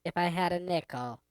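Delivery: lightly altered female effect voice. Pretend. Trying out the soundboard's woman setting, female voice effect. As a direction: speak through a female voice setting.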